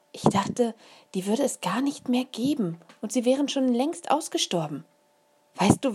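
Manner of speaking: Mama bubbling over with excitement; mother thrilled by a rare beetle; excited mother. A narrator's reading. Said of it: "Mama war total aus dem Häuschen".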